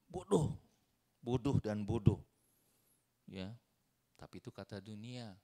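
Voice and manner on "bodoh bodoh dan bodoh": mocking taunt. Preacher repeats scoffers' word.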